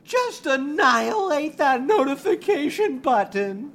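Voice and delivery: building to a crazed threat; escalating frenzy. Acted. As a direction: ramp up into a wild rant. Influencer ramps up to threats.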